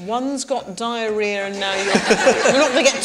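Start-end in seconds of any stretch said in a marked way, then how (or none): 0.1-1.9 slow, giggling through the quote; laughing. Shown as a demonstration. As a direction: struggle not to laugh.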